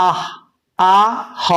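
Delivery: আহ split into আ then হ; sound by sound. Shown as a demonstration. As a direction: break আহ into its two sounds, slowly. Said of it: "A H A কি উচ্চারণ হবে?". (আ আর হ আলাদা করে ধীরে উচ্চারণ)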